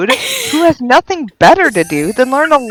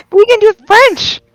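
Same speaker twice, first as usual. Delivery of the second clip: higher, louder, fast indignant rant; heated rant; 11 semitones higher, 5 dB louder than usual. Real, not acted. Friend ranting to the group about French, heated. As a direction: go off on it, really worked up.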